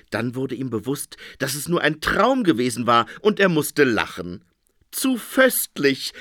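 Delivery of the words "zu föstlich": high, slow, tittering delight; giggling. A narrator's reading. Phoenix amused by his dream, giggling. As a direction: giggle over the silly dream. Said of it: "ficherte der Phönix".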